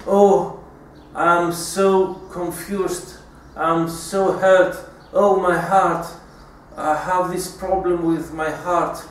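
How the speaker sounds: slow mock-wounded sighing mother; fake hurt. Manipulative mother faking hurt to win over her son, slow and mock-pained. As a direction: ham up a fake heart complaint, slowly. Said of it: "then she may fake".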